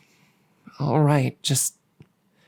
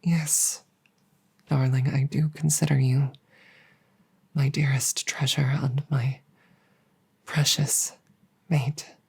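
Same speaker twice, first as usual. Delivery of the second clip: tender whisper. Acted. Dragon assuring his human mate she is treasured, whispering tenderly. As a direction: breathe it to her lovingly.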